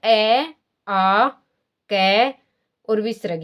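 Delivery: ए, आ, कै and विसर्ग said slowly from the throat; demonstrating the sounds. Shown as a demonstration. Teacher sounding out letters for students, slow and deliberate. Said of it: "तो देखो, बोल के देखो".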